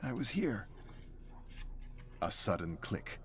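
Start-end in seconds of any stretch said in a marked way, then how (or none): 0.0-0.7 lightly raised, shaken pilot voice; a dazed pilot recalling the crash; a hint of a bewildered pilot.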